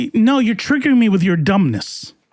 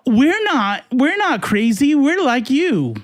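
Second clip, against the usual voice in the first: higher, slow, pleading mock voice of a Democrat; 4 semitones higher, slower than usual. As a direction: parody a politician begging to seem normal. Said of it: "you know, they're".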